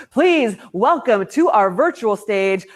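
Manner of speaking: slow, drawn-out stage welcome; announcer introduction. Real, not acted. Host bringing two guests onto the virtual stage, announcer style. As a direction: present the guests grandly, stretching each name.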